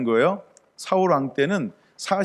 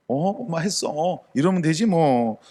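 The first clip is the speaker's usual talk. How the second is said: put-on child's excuse; slower than usual. Child excusing herself to mom.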